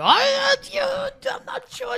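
loud high babbling.

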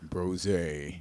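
deep, manly, put-on butch bro voice. Asking what's in a brosé, trying it nice and butch: put-on butch voice. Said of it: "let's see if I can do it nice and butch".

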